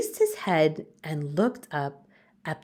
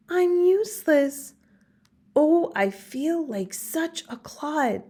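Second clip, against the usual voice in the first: sad; 10 semitones higher than usual. Acted. Gerald's sad inner thought.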